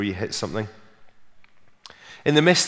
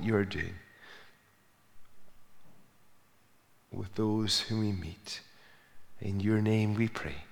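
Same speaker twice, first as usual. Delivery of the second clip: public prayer. Real, not acted. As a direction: lead them in prayer, letting it grow hushed. Leads the congregation in prayer.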